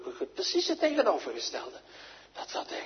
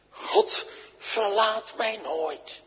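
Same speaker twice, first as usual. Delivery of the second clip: slow, choked-up confession; tearful; 4 semitones higher, much slower than usual. Acted. Preacher slowly confesses God never leaves, a touch tearful. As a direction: let the voice catch on it. Tender climax after the shout.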